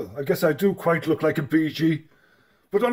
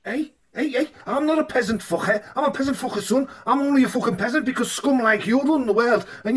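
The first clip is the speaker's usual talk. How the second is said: ranting peasant; 7 semitones higher, faster than usual. Acted. A peasant raging at the king about taxes, high and fast. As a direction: rail at the king in a squeaky voice.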